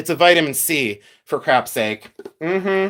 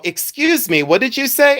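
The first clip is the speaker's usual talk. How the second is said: puzzled vendor; 8 semitones higher than usual. Retold or imitated. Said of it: "And they go".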